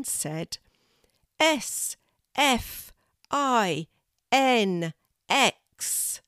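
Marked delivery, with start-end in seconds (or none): 1.4-6.2 high, slow, separated letters; tentative spelling out. A narrator's reading. Kelty tries the word a second time, tentative. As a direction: try each letter carefully, pitched high.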